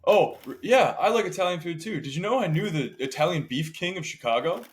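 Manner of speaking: lightly voiced boastful friend; Alex. Friend chiming in on a chat about Italian food, eager mock name-dropping. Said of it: "And he'll be like".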